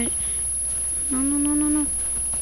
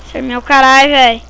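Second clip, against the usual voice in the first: angry outburst; 6 dB louder than usual. Real, not acted.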